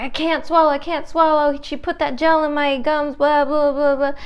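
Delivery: high-pitched mock panic dissolving into babble; panicking patient. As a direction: imitate a patient babbling in alarm. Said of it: "This patient was still freaking out".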